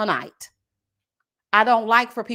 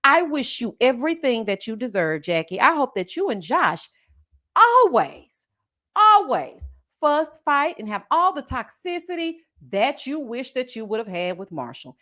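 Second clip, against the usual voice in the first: mock well-wishing. Speaking for Marshall to Jackie, bitter mock well-wishing. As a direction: pronounce a curse as a blessing, leaning on ALWAYS. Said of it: "I'll say it for you, Marshall".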